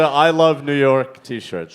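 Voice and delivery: slow Queens accent, low; drawn-out New York vowels. Shown as a demonstration. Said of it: "That's my New York accent".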